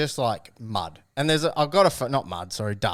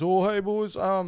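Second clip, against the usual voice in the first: Aussie radio voice; 8 semitones higher, slower than usual. Retold or imitated. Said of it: "he puts on this Aussie accent".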